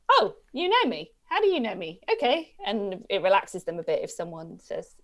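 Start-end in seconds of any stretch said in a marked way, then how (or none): 0.1-2.5 pitched-up startled questioning; überraschter Hund. Retold or imitated. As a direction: voice a dog caught off guard, higher pitched. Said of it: "because they kind of go".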